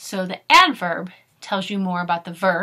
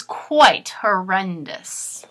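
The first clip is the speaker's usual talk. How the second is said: dramatic horrendous; 3 semitones lower, much slower than usual. Acted. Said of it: "the noise is".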